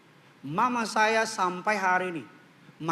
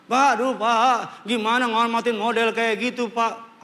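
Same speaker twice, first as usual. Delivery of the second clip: loud, drawn-out mock wail; exasperated wife; 4 dB louder than usual. Wife protesting she cannot respect such a husband, wailing complaint. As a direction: whine in theatrical despair.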